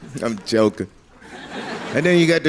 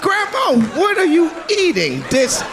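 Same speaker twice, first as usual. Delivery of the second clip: much higher, laughing shout, slowing at the end; mock choked outcry; 12 semitones higher, slower than usual. Grandson complaining to grandma about her breath, strained shout. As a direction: cry out as if gassed.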